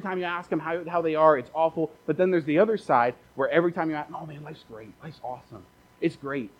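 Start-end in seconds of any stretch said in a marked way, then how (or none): 4.1-6.5 oversell how great everything is; forced cheer. Retold or imitated. Fake-happy church member.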